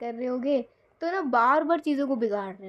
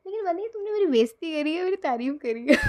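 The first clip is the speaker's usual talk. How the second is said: laughing tease; 4 semitones higher, faster than usual. Retold or imitated. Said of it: "कह रहे".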